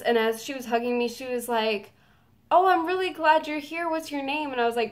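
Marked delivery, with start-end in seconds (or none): 2.5-4.5 high, gushing imitation of the singer; pitched-up friendly quote; retold sweet greeting. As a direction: coo a welcome mid-hug. Voicing singer's greeting during hug.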